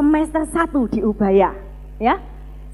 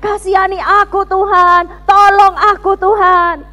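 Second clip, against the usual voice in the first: raised mock-desperate prayer; shouted plea; 4 semitones higher, 5 dB louder than usual. Preacher rereading diary prayer, mock-desperate shout. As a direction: beg God for mercy, exclaiming. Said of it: "Teriak-teriak sama Tuhan".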